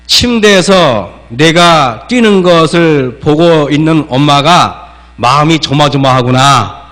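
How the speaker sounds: put-on slow, calm, gentle explaining to a child; gentle I-message. Shown as a demonstration. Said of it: "나 대화법은 이렇게 하는 것입니다".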